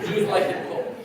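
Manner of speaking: chuckling through the punchline; laughing. Real, not acted. Son joking about his father at the funeral, laughing. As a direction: laugh the joke out as you say it. Joke about Jews and cold houses.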